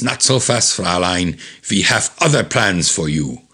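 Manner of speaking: put-on menacing German-accented villain; comic-book German villain voice; Hitler with German accent. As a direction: halt the captive in a mock German accent. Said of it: "here's Hitler".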